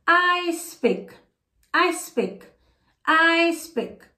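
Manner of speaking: clear, even drill model with pauses for the class to repeat; repeat-after-me drill. Shown as a demonstration. Teacher leads the class in a repeat-after-me English drill. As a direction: leave a pause after each I speak for students to echo. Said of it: "acompanhe e repita aí comigo".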